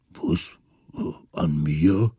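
a mild puzzled mammoth. Acted.

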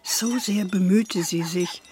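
measured storyteller's voice, unhurried; story narration. A narrator's reading. Grandmother telling granddaughter a story, gentle narration. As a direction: tell it like a bedtime tale.

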